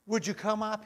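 laut und langsam, mit Kanzelstimme; booming welcome. Real, not acted. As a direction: ruf es in die ganze Kirche hinaus. Minister addresses congregation aloud.

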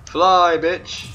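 loud, high shout at the enemy; excited shout. Real, not acted. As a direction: yell it out in triumph. Gaming trash-talk shout.

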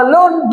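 "alone" in two separate parts, a-lone; split into syllables. Shown as a demonstration. Teacher counting syllables for students, "alone" split as a-lone. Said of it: "দুটো syllable আছে".

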